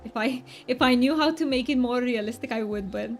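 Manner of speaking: put-on, exaggerated Romanian accent for fun; thick Romanian accent. Streamer doing it just for funsies for the stream, thick mock Romanian accent. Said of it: "I'm gonna be doing a Romanian accent".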